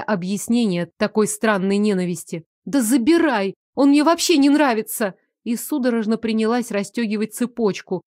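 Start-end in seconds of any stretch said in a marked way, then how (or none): 2.6-5.1 panicked, louder, higher outburst; adrenaline shakes. Acted. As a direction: blurt it out in frantic fear. Panicked offering of the pendant. (испуганная паническая скороговорка)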